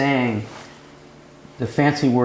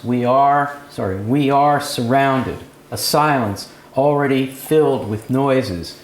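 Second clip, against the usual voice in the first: slow, slightly louder lyrical reading; poem reading; 2 semitones higher, 3 dB louder than usual. Acted. Teacher reading the poem aloud to class, lyrical and slow. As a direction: lean into the music of each line.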